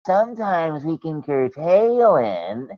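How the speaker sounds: slow, prim mock voice; mocking imitation. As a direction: drag it out smugly like quoting him. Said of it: "and then you go".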